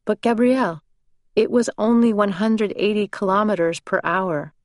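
put-on high, thick Italian accent; Michele's thick Italian accent. A narrator's reading. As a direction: voice the husband in a heavy Italian accent. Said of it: "in his thick Italian accent".

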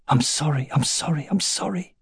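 rising, softening, desperate repeats; pleading apology. A narrator's reading.

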